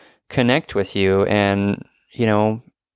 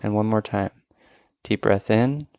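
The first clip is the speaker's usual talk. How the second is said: guided breathing. Acted. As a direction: lead the breaths gently. Leads a breathing exercise.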